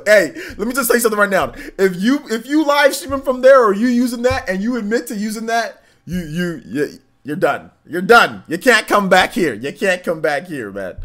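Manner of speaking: high, loud indignant rant; worked-up outburst. Real, not acted. Streamer banishes a viewer from the stream, loud indignant rant. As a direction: rant as you throw someone out.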